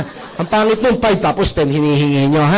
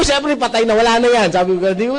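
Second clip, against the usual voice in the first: ordinary talk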